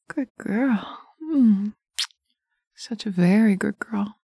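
sensual hypnotic ASMR. Acted. Dominant partner guiding the listener through hypnosis, intimate murmur. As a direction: coax the listener like a lover in their ear.

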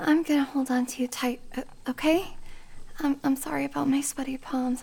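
hushed and nervous, clinging on; nervous whisper. Acted. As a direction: whisper it, nervous on a bumpy ride. Nervous whisper on bumpy road.

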